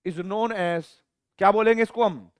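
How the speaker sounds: slow, word by word dictation with long pauses; teacher dictating a definition; dictation pace. Shown as a demonstration. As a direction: dictate it for notes. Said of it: "dictating a definition slowly".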